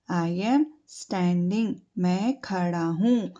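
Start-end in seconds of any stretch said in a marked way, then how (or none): 0.1-1.7 very slow, each word drawn out; slow model phrase. Shown as a demonstration. Teacher modelling the phrase slowly for children to repeat. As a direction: say it slowly for pupils to copy. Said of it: "I stand नहीं आएगा यहाँ पर".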